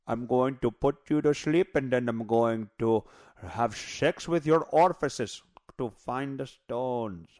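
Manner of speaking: hammed-up Indian doctor voice, slow; a crude Indian accent, dragged out slowly; doctor doing a mocking Indian accent. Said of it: "That means he's an Indian".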